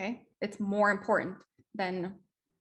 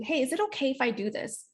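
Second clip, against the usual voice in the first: polite request; 3 semitones higher than usual. Shown as a demonstration. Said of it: "do it politely".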